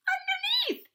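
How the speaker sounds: very high squashed squeak; underneath sort of way. Acted. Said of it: "in an underneath sort of way".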